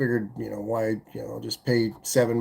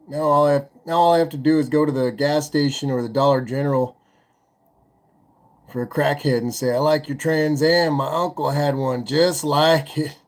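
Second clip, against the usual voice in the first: crackhead voice. Retold or imitated. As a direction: play a wired street crackhead. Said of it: "you like my crackhead impression there?".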